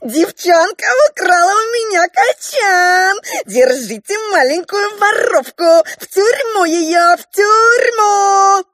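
high, loud crying clown shriek; thin little voice. Acted. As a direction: wail like a tattling clown. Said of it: "закричал тоненьким голоском". (тоненький визгливый голосок с плачем)

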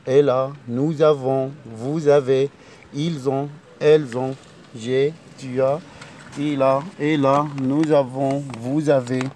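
teacher reciting avoir; conjugation drill. Shown as a demonstration. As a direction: chant the conjugation like a classroom drill. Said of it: "يبقى فيرب أفوار".

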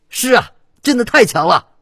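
very high, loud broadcast amazement; high-pitched, loud gushing; gushing commentator. A narrator's reading. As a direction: exclaim like an awestruck TV commentator. Commentator gushing over player.

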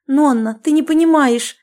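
exclaimed protest; exclaiming. A narrator's reading. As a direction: cry out that she doesn't understand. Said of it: "воскликнула Олеся".

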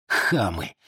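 low scornful mutter of хамы; muttered insult. Acted. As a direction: spit хамы low and under the breath. Muttered insult before shouting it.

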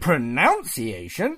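pronunciation drawn out as "pro-NOUNCE-iation"; slow, questioning pronunciation with "noun" in it; deliberate mispronunciation. Pretend. Needling host after correction, pronunciation mispronounced with "nounce". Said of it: "about pronunciation".

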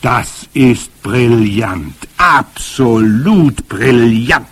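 very slow, loud, savoured praise; delighted exclamation. A narrator's reading. Grandmother praises the boy's cat idea, delighted exclamation. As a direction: relish every word in delight. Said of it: "sie rief aus".

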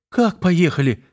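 high, stunned question; be caught off guard, rising high; taken aback. Acted. Юля ошарашена, что её бросают, растерянно. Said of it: "опешила Юля".

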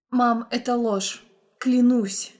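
ordinary delivery, nothing marked

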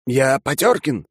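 high, slow indignant correction; mildly heated young count; flaring up. A narrator's reading. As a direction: insist on your name, affronted. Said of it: "вспылил граф".

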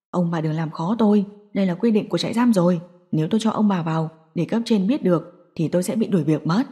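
a nervous prison guard saying no. Acted. Guard refuses the parents at the detention center.

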